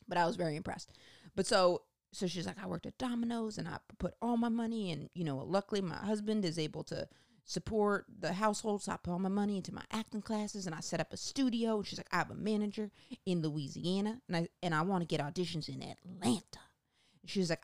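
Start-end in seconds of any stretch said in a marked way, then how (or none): 2.6-11.8 breathless earnest newcomer; impersonating eager actress. Retold or imitated. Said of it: "best impersonation I can do". 12.1-16.6 half-whispered eager newcomer; impersonating eager actress. Retold or imitated. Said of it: "best impersonation I can do".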